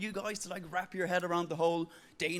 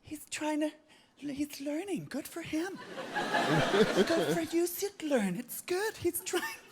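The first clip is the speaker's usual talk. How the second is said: condescending encouragement; 10 semitones higher, slower than usual. Retold or imitated. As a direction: coo down at him like a proud parent. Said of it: "you're like".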